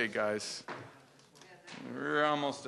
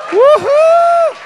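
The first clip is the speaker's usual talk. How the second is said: woohoo; 12 dB louder than usual. Real, not acted. Cheering for his wife Kathy.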